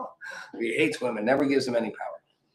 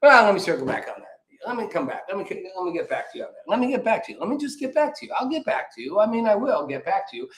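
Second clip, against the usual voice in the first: lightly mocking press secretary dodge, rising; a hint of Jen Psaki parroting her stock line; Psaki impression; 5 semitones higher than usual. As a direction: dodge every question with a breezy, higher brush-off. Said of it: "but she circled back".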